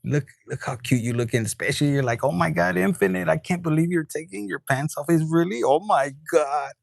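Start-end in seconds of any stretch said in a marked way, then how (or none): 2.2-6.7 acted-out disbelief, drawing out the last "oh my God"; lightly hammed-up astonishment; mock amazement. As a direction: play a thrilled, can't-believe-it reaction. Acts out viewer's amazed reaction.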